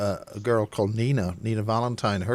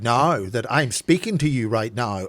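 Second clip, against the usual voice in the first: menacing Ulster tone; 4 dB louder than usual. Shown as a demonstration. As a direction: lean in and make it sound like a threat. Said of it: "does that not sound more intimidating".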